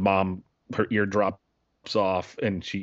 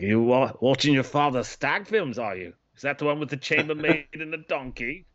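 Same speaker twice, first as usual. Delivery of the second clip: put-on a light, awkward New Zealand accent; a bad stab at a New Zealand uncle; 3 semitones higher than usual. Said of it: "awful impersonation".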